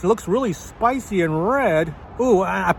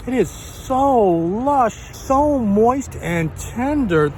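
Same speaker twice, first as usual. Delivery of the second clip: excited rave; 6 semitones higher, slower than usual. Real, not acted. Raving over the beef shank.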